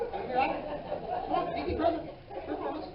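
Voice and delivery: high, mock old-timer pleading; old person. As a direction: imitate an elderly person coaxing for a ride. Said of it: "Old people come up and go".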